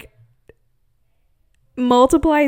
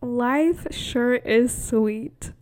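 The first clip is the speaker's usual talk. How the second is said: carefree; much slower than usual. Retold or imitated. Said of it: "And I was just like".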